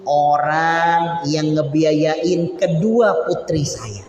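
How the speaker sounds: slow, drawn-out lament, half sung; slow wailing prayer of a grieving mother; mournful crying plea. Retold or imitated. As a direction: mimic a widow crying out to God. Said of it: "Dia nangis".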